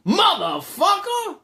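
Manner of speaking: high, slow, drawn-out shout; angry curse. Retold or imitated. Storyteller voices the man cursing as he leaves, angry. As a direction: hurl the curse with full force.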